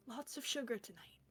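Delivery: softly mouthed confidence; mouthed aside. Acted.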